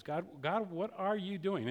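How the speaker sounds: softly asking God, hushed; quiet prayer. Retold or imitated. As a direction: murmur the question upward. Quoting anguished prayer.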